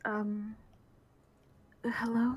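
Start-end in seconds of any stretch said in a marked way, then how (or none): 1.9-2.4 tentative. Acted. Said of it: "very tentatively send out".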